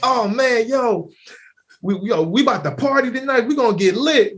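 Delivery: loose, hyped-up slangy pitch; hyped casual voice. Acted. Imitating people who see a friend before the party, hyped. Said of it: "it's like when they see them, like".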